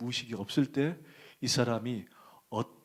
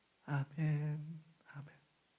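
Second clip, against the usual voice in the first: put-on soft, babyish, childlike little voice; 4 semitones higher, 6 dB quieter than usual. Retelling his unconscious wife answering his question, in a baby voice. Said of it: "그 목소리가 애기 목소리야".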